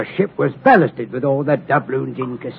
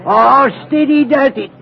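calm, cool, like a rapper; 9 semitones higher than usual. Retold or imitated. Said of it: "calm and cool like".

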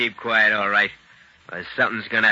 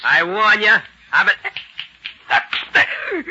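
high, loud, panicky threat; alarmed warning; 9 semitones higher, 4 dB louder, much slower than usual. Acted. Armed guard warning off an advancing prisoner, high alarmed shout. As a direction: raise the voice sharply to stop him.

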